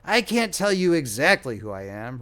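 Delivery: querulous whine. Acted. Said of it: "replied the querulous whine".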